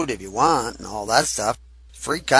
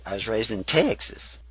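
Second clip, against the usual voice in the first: southern accent on Texas; 3 semitones lower, 5 dB quieter than usual. Shown as a demonstration. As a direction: say "Texas" the southern way, vowel stretched. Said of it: "that's how I say Texas".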